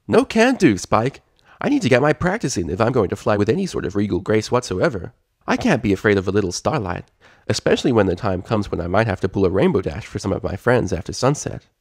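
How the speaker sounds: lightly voiced cheerful princess; cheerful Twilight.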